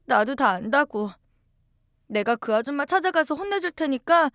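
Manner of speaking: put-on a child asking her mother, upset; a hint of a worried young girl; young daughter. Narrator voices child self.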